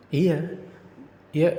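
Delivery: a sharp, loud, fed-up yes; loud exasperated yes. Acted. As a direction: bark the yes back at her. Heated argument with girlfriend.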